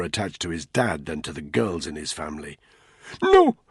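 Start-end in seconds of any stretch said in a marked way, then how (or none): 3.2-3.6 high, loud strained gasp; breathed desperate plea. A narrator's reading. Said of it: "the prisoner breathed".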